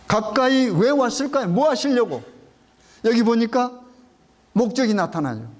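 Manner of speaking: ordinary delivery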